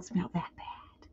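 whispered lovestruck excuse. Retold or imitated. Lovestruck girl whispering excuses about his feet. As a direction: hush it like a secret.

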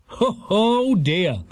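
high, surprised ambulance man. A narrator's reading. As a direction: exclaim on finding the patient. Ambulance man's arrival, acted voice.

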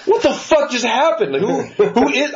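baffled outrage after a rude encounter; stunned disbelief. Retold or imitated. Worker recalling his reaction after the boss left, stunned.

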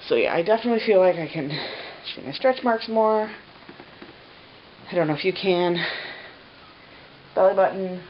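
out of breath; breathless, heavy breathing; winded. Real, not acted. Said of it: "I sound like a winded rhino".

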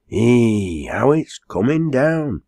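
amazed country landlady; marvelling. Acted. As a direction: exclaim in wonder at the weather.

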